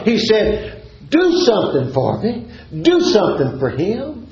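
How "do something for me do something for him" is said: entreat as a desperate father would; pleading cry. Acted. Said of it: "And he cried out".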